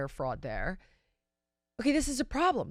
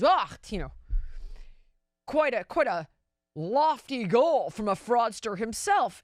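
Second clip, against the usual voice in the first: mocking quote; 3 dB louder than usual. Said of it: "the New York Times turns around and says".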